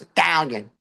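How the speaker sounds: "Italian" in two syllables, as "TAL-yun"; with emphasis. Shown as a demonstration. Comic demonstrates for the crowd, with emphasis. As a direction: lean hard on the "TAL" of "Italian". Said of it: "and with emphasis".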